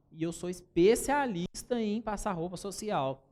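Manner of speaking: slow, firmly stressed claim; confident pitch. Shown as a demonstration. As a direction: sell yourself with steady conviction. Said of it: "vai falar assim".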